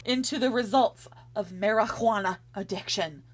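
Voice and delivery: put-on grave, swelling old-newsreel read; dramatic narration. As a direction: read it like a doom-laden film prologue.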